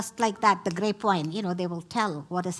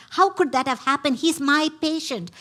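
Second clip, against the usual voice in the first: higher and louder, calling out in distress; retold shouting; 5 semitones higher, 4 dB louder than usual. Doctor shouting at the director about her dead patient, loud and upset. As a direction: cry it out at him like you did then. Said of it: "shouting at the director".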